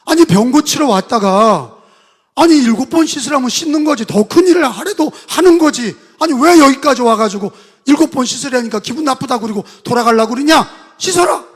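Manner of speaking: servants urging loudly. Retold or imitated. 부하들이 장군을 꾸짖음.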